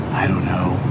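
breathy whisper. Real, not acted. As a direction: whisper it as if hiding. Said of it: "I don't know why I'm whispering".

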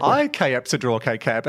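"I K-Ap Sadroke K-Cap" said slowly as reversed speech; backwards speech. Retold or imitated. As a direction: retell "Sadroke K-Cap" backwards, slow and deliberate. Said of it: "dialogue backwards".

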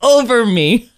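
mock heavenly. Sarah mock-praising her new iPhone, high and dreamy. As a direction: sing it like angels are coming. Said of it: "Can the angels start singing over me?".

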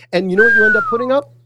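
rising fast and loud to the payoff; fired-up buildup. Real, not acted. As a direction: build to the punchline.

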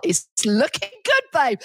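high-pitched comic repeat; repeated chirpy reply. Retold or imitated. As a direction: say it back high and playful. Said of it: "You have to say that again".

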